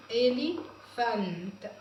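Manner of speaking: إليفانت said slowly with a rising end; slow repeat. Shown as a demonstration. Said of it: "teacher repeats word".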